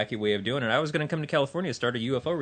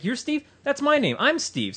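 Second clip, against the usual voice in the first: mock copycat voice; 12 semitones higher than usual. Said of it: "It's like".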